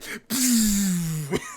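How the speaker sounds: loud puffed explosion sound; imitated blast noise. Narrator mimicking the trailer's big hit, loud whoosh. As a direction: blow out a big whooshing impact.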